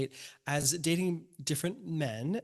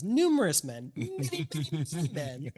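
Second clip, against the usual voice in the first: Blanche Devereaux. Acted. Co-host dwelling on dating many men, lightly put-on Blanche. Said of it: "now you sound like Blanche".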